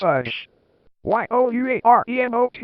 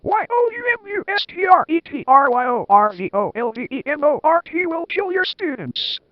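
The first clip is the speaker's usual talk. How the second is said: high, fast, louder spelled-out ranting; hammed-up yell; 8 semitones higher, 4 dB louder than usual. A narrator's reading. Minister telling off the old headmaster, high fast mock yell. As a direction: rattle off the letters like a furious minister. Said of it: "yelled Cornelia Fudge".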